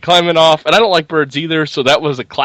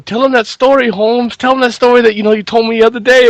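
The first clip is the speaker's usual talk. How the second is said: quoting the partner; 8 semitones higher, 3 dB louder than usual. Retold or imitated. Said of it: "when they ask him".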